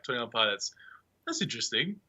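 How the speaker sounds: soft, questioning lift at the end; mildly unconvinced, voiced quietly; doubtful reaction. Listener hearing an unknown band's name, politely doubtful. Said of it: "until, like, five years ago".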